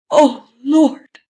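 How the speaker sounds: very high loud cry of terror; terrified cry. A narrator's reading. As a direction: brace for the crash, crying out. Passenger before crash.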